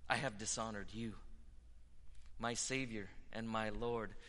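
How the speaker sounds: hushed prayer. Acted. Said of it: "That attitude that says".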